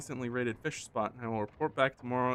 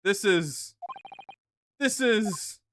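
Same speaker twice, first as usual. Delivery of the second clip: halting start building to a huge scream; overjoyed outburst; 9 dB louder, much slower than usual. Acted. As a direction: burst into high, drawn-out elation. Prisoner overjoyed to meet countrymen.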